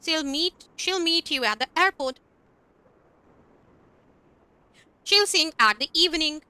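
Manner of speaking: slow, careful example sentences; teacher modelling contractions slowly; slow demo reading. Shown as a demonstration. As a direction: read each one out slowly for learners. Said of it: "she'll कर देंगे contract करके".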